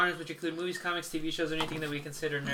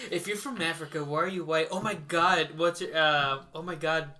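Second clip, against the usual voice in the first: put-on Mean Girls quote. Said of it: "Like off of, uh, Mean Girls".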